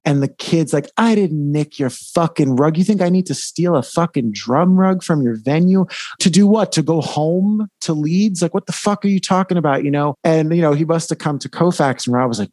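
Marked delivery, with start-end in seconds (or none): 1.0-9.8 lightly acted indignant denial, building in pitch; mock indignant retort. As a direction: imitate an accused kid arguing back, mildly heated. Retold quarrel, accused kid hits back.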